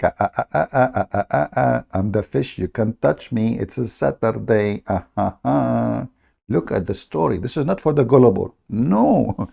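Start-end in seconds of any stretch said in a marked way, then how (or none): 0.0-6.1 lightly voiced fish taunting in singsong; teasing dancing fish. Fish taunting the Jews on Saturday, mild singsong. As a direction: tease them like a fish that knows it is safe. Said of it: "doing belly dance, like".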